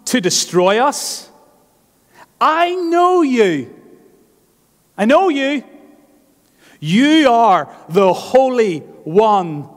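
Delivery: high, loud, slow shrieking demon voice; demon crying out. Acted. Cornered demon cries out at Jesus, high, loud and slow. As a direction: stretch each word like a cornered demon screaming. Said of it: "and he cried out".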